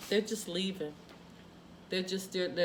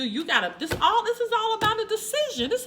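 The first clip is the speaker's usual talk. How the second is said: laughing; 13 semitones higher, 6 dB louder than usual. Real, not acted. Laughing at the reading.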